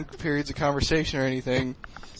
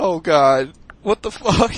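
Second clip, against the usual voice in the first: 1 mortified; 6 dB louder, slower than usual. Retold or imitated. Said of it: "Oh, I was like".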